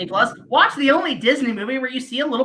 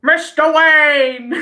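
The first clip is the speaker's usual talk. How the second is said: slow dramatic movie call; 2 semitones higher, 4 dB louder, much slower than usual. Retold or imitated. Imitating Batman Forever opening.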